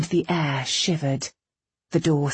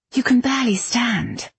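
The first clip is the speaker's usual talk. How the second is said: dismissive; 8 semitones higher than usual. A narrator's reading. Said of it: "Bradamant said dismissively".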